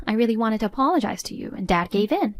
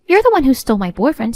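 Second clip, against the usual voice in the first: angry outburst; 2 semitones higher, 6 dB louder, faster than usual. Acted. Sisters quarrelling over stolen boyfriend.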